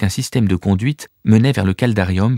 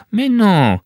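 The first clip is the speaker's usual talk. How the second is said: reassuring; 12 semitones higher, 3 dB louder than usual. Acted. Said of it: "tenta de la rassurer Corvus".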